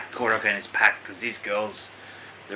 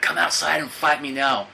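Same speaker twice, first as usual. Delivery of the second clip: mock yell, higher, louder and drawn out; retold challenge yell; 6 semitones higher, 4 dB louder than usual. Retelling an angry man in the hall, mock screaming challenge. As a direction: call him out to fight, slow and raised. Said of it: "he just starts screaming".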